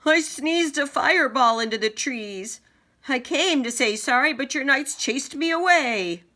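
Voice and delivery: high loud dragon voice; roaring dragon. Acted. Dragon roaring its defense at the king. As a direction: protest loudly as the big beast.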